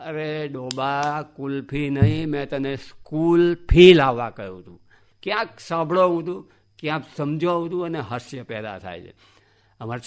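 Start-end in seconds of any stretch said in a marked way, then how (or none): 0.1-4.8 slow then a big loud burst; you dunce, building anger; exasperated scolding. Retold or imitated. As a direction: scold the dim boy, rising to a shout. Teacher scolds dim student.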